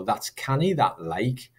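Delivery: light Geordie accent. Shown as a demonstration. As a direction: say it with a Geordie lilt. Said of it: "I can tell it's Geordie dialect".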